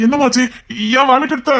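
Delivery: loud, high worried questioning of his sister; alarmed questions. Acted. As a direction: demand to know, panicked. (பதட்டமான உரத்த கேள்வி)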